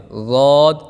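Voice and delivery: ضاد said full and heavy, medium softness; full heavy dwad. Shown as a demonstration. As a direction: give ضاد a thick, middle sound. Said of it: "درمیانی آواز سے". (ضاد موٹا، درمیانی نرمی سے)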